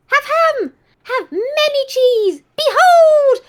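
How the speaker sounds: gleeful spirit voice unveiling the cheese; triumphant spirit. Acted. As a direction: present the fridge like a treasure, shouting Behold. Network voice, triumphant.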